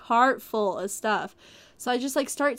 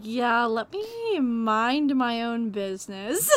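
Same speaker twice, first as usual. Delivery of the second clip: dismissive mock; slower than usual. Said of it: "You're like".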